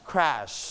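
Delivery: "crash" with a drawn-out shhh; long SH. Shown as a demonstration. Teacher models for repetition, "crash" ending in long SH. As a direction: hold the final SH of "crash". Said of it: "จะเสียงยาวนะครับ".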